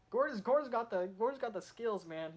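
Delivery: hyped up, high and loud on Gordon's name; excited. Real, not acted. Fan cheering loudly for Gordon's moment, excited. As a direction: cheer him on like a fan watching a great move.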